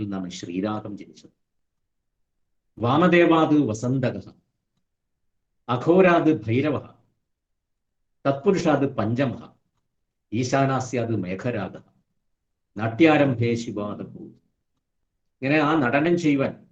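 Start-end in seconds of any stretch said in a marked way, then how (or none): 2.8-14.2 slow, chanted Sanskrit verse; measured scriptural chant; sloka recitation. Shown as a demonstration. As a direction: intone it like scripture.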